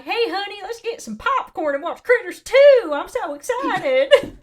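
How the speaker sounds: high, loud, gushing fake enthusiasm; sarcastic sing-song about watching Critters Two; mock excitement. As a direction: oversell the excitement, dripping sarcasm. Mock-cheerful quote to husband.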